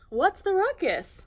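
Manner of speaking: high, loud, slow shout of a question; loud call. Acted. Gorilla calling loudly next door, high and booming. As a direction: bellow it over the noise. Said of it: "Norman asked his neighbor".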